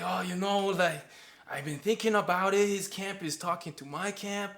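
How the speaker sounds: high, exaggerated Asian Quebecois accent impression; clumsy imitation of an Asian Quebecois accent; bad Asian Quebecois accent. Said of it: "And he's like".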